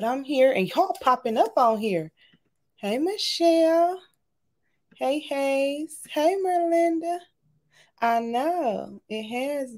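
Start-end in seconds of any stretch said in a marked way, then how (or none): 2.8-7.2 excited. Real, not acted. Greeting viewers by name.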